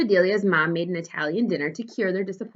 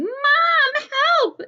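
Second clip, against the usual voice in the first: high, louder yell for mom; 4 dB louder than usual. A narrator's reading. Girl tickled by dad, yelling high for mom. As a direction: call out for help, loud and high. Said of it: "yelled Amelia Bedelia".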